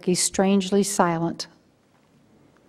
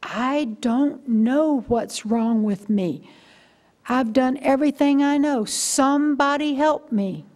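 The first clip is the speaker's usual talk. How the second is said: retold desperate plea; 4 semitones higher, slower than usual. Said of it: "and I cried out".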